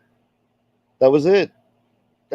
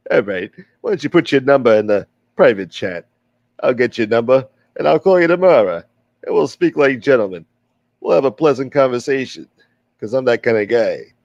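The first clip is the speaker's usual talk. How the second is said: put-on wise guy accent. Old gangster defending his name to the stream, lightly voiced. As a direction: play the smooth-talking tough guy, lightly. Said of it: "I used to do this accent a lot better".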